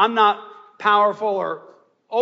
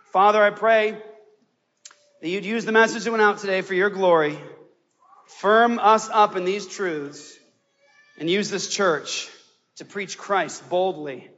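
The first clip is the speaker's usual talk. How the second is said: closing prayer; 6 semitones lower than usual. Acted. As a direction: ease down into a hushed benediction.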